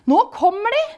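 high-pitched, loud cheering; jubilant. A narrator's reading. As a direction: cheer their arrival in a high voice. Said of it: "jubler Hokus".

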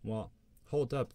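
a different voice in the head, drawn out; other inner voice. A narrator's reading. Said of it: "the other voice says".

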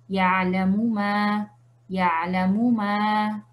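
ya'lamu ma lento, cada m con su vocal; lectura normal. Shown as a demonstration. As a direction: lee ya'lamu ma sin saltar la mu. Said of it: "se va a leer normal". (ya'lamu ma pausado, sin fundir las m)

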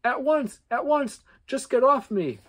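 high loud panicked elf. Acted. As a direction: squeal it out while being pinned. Elf pinned, begging.

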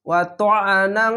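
ওয়া ত্বআনাং ending in a long nasal "ng"; ikhfa ghunna. Shown as a demonstration. Teacher showing learners ikhfa, drawn-out nasal ending. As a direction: hold the end of ওয়া ত্বআনাং as a nasal hum. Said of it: "ইকফা গুন্না বাংলা অনেস করার মতো".

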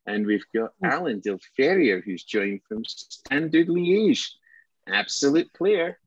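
breathless transfer window special announcer, stretching the big names; mock transfer news presenter. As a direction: play the over-excited Sky Sports transfer reporter. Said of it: "Transfer window special".

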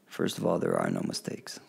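soft, breathy voice heard from nowhere; quiet inner voice. Retold or imitated. A voice beside her in the jungle, soft and calm. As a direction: speak it gently like an unseen presence. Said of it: "like somebody was standing next to me and said".

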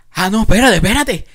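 high, loud tipsy bravado; drunk me talking. Retold or imitated. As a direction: puff yourself up like a drunk boasting. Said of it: "digo yo que". (bravuconada borracha, aguda y fuerte)

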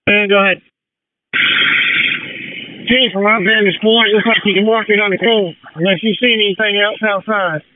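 crackly two-way radio; crisp callouts over the radio; fire radio. Real, not acted. Fireground radio traffic.

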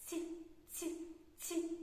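short, separate soft "Ці", like chirps; sparrow's soft ць. Acted. Teacher voicing a little sparrow, soft chirped "Ці". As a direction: chirp a palatalised "Ці", spaced out. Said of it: "живе маленький горобчик".

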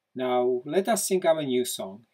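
loud happy invitation; rally friends to sing, bright; joyful call. Acted. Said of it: "he said".

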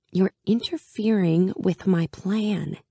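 slow, deadpan protest; dry mock complaint. A narrator's reading. Alina dryly mock-grumbling at teasing Mal. Narrator voicing herself dryly.

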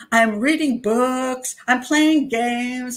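a hint of a smug rehearsed answer; mock parroting. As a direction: parrot the advice back to the doctor, slowly. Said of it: "That's why she asked me those questions".

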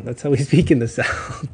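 joking protest broken by a laugh. Real, not acted. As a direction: laugh through the words. Joking defence of her accent.

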